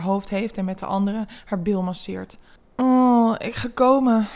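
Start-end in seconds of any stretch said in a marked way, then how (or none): 2.8-4.3 louder, higher groaned words; narrator's voiced groan, raised in pitch. A narrator's reading. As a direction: start on a long "oh", groan into the words. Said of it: "hoort ze hem kreunen".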